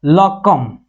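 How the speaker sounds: लकम stretched out extremely slowly; drawn out. Shown as a demonstration. Teacher saying the reversed nonsense word, very slowly. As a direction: hold every sound of लकम. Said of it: "इसी का उल्टा थोड़ा सा बोलते हैं".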